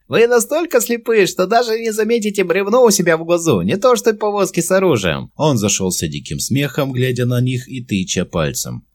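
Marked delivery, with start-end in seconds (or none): 0.1-5.3 very high, loud gleeful goblin; a goblin suddenly enjoying itself; cheered-up goblin. A narrator's reading. Goblin mocking the captors, gleeful high goblin voice. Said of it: "повеселевший гоблин".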